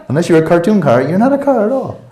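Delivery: giggling delivery of the joke; laughing. Real, not acted. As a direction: say it while cracking up.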